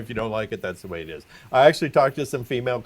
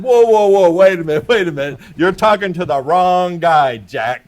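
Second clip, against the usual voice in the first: mock stern cop; 5 semitones higher, 9 dB louder than usual. Cop stopping the same doctor.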